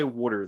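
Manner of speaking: "water" said as "wooder"; regional "water". Retold or imitated. Co-host confirming mom still says it, regional "water". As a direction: round the first vowel of "water" into "wood". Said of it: "she does still say".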